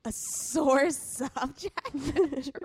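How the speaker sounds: disbelieving echo through a laugh; incredulous. Real, not acted. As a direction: repeat it in shocked disbelief. Incredulous echo of cohost's phrase.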